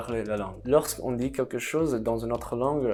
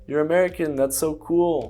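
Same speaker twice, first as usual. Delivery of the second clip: higher, louder mock enthusiasm; gushing admiration; 5 semitones higher, 6 dB louder than usual. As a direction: gush like an impressed fan. Acts out gushing language learner.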